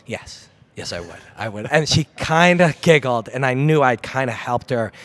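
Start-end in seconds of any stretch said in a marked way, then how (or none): 0.1-1.7 retold reassurance. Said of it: "And I paused, and I'm like".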